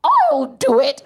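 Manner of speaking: high, put-on volunteer's call; exaggerated high politician impression; Theresa May. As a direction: pipe up high as an eager mock politician. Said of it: "Theresa May just came through the back and went".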